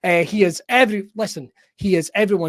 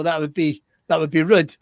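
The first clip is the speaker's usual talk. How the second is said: usual speaking voice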